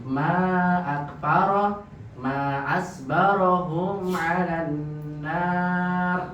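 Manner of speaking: very slow, emphatic recitation; exclamation of wonder. Shown as a demonstration. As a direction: show the awed tune. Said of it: "antum berikan intonasi yang sesuai".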